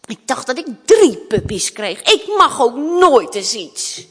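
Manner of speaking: spoilt princess complaining, loud opening; impatient. Acted. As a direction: demand it like an impatient child. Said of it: "zei ze ongeduldig". (ongeduldig mopperend prinsesje)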